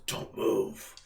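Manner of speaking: low, whispered demon voice; dark demonic voice. Acted. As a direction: hiss it like a demon. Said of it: "in a very dark demonic voice".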